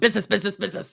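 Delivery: imitated, put-on coked-up voice. Quoting how Dan talks about Lyle on the podcast, do an impression of a coked-up Lyle. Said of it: "he does a good impression of a coked up Lyle".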